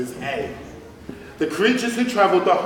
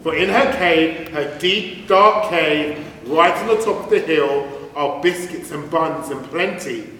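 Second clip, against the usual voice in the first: sly duck voice; 3 semitones higher, 4 dB louder than usual. Acted. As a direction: lure him in with sweet promises. Duck's tempting offer.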